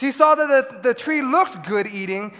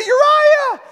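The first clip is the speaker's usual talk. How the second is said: sharp high call of the name; 8 dB louder than usual. Retold or imitated. Dad yelling at his son grabbing a cable, high shout. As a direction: yell the kid's name to stop him. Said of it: "I have to say".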